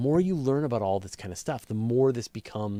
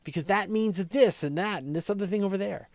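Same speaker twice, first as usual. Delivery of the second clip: amazed whoa; 11 semitones higher, 4 dB louder than usual. Retold or imitated. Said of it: "I'm like".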